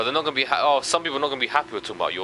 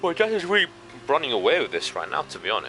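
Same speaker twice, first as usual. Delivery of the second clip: talking through a yawn; words stretched by a yawn; 2 semitones higher than usual. Real, not acted. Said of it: "Stop yawning".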